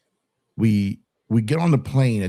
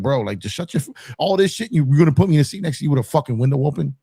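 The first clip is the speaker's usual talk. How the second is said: fast, higher, pushy protest to the marshal; worked-up complaining; 4 semitones higher, 3 dB louder, faster than usual. Retold or imitated. Complaining to the air marshal, fast and whiny. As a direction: rant at him like a spoiled kid. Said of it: "and I'm talking like".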